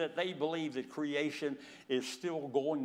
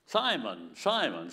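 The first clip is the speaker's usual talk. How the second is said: calling out; 3 semitones lower, 7 dB louder, slower than usual. Acted. Lord calling Simon by name twice.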